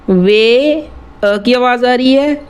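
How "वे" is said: वे held long, standing on its own; broken into syllables. Shown as a demonstration. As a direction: stretch वे as one isolated beat. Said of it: "इसको तोड़ के देखना है". (वे को अलग करके, खींचकर)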